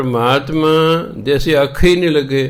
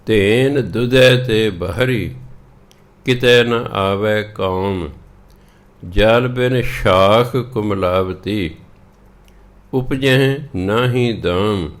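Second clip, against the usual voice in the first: slow, measured Gurbani reading; scripture recitation; slower than usual. Acted. Teacher reading the shabad to learners, slow recitation. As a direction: recite each line slowly, drawing out the words.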